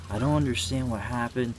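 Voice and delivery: a grieving friend's confused lament; bewildered mourner. Retold or imitated. Grieving friends voiced in confused disbelief. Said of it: "friends and family always say the same thing".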